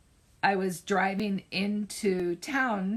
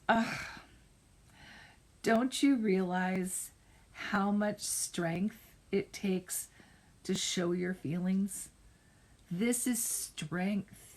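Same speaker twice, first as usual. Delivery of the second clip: gentle therapist reassurance; slower than usual. Retold or imitated. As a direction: ease her gently toward a kind truth. Therapist gently comforting crying student.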